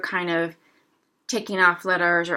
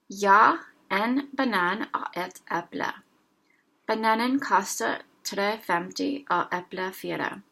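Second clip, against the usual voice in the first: slow careful reading. Shown as a demonstration. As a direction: read the Norwegian dialogue slowly, word by word. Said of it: "I'm speaking very slowly".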